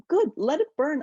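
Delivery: loud, high burst of defiance; defiant acted thought. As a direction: act out her thought with sudden, emphatic defiance. Voices woman's defiant thought.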